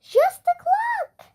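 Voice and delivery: high, slow, knowing nurse; she's sure she knows best; lightly voiced confident school nurse; nurse voice, insistent. A narrator's reading.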